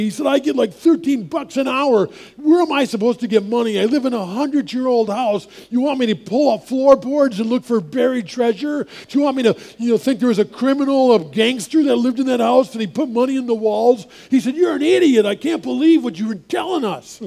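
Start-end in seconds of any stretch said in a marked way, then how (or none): 0.3-14.1 put-on New York accent. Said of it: "a bit of an accent". 14.6-17.2 put-on New York accent. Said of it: "a bit of an accent".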